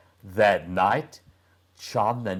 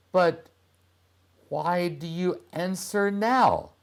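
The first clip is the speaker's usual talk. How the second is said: put-on boy's voice; 9 semitones higher than usual. Boy asks girl.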